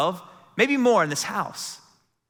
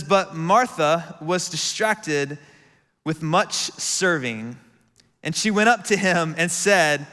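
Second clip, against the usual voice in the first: a reading with a little snark; lightly acted annoyance; snarky reading; slower than usual. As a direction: read Martha's complaint with mild snark. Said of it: "I even gave you some, uh, some inflection in my voice".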